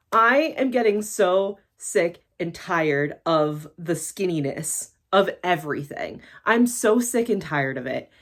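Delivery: fed up, slow emphatic build; really fed up, drawn-out emphasis; getting worked up. Real, not acted. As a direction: weigh out each word in weary exasperation. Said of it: "I can already tell I'm getting worked up".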